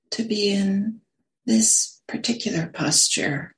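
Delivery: unhurried meditation guidance, long silences between phrases; guided meditation. Real, not acted. Teacher settling a group into sitting posture, guided meditation. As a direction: guide them gently into the sit, phrase by phrase.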